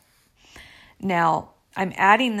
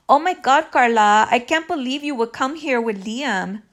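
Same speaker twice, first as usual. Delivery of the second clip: higher, louder mock Chola accent; 4 semitones higher, 5 dB louder than usual. Imitating the other woman confronting her, Chola accent. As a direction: put on a Chola accent, loud at first. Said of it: "in a Chola accent".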